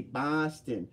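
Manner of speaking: lightly put-on Boston accent; playful touch of Boston accent. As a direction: say it like a mock Bostonian. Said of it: "they make me do the Boston accent a lot".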